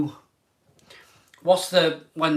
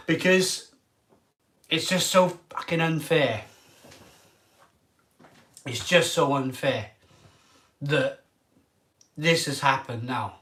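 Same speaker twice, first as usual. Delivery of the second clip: emotional. Real, not acted. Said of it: "if I get a bit emotional here".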